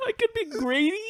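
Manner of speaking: very high, quiet squeak; squeaky voice. Pretend. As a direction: squeak it mischievously. Continuing squeaky bit.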